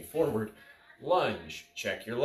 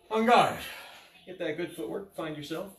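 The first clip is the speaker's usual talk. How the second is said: crisp fencing commands; 7 semitones higher than usual. Shown as a demonstration. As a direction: bark the command to start. Calling drill commands.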